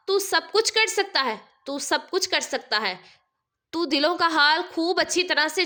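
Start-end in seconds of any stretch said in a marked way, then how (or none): 0.1-1.4 higher, pleading cry to God; mother begging aloud; loud plea. A narrator's reading. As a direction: call out to God for help. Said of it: "زور سے کہا".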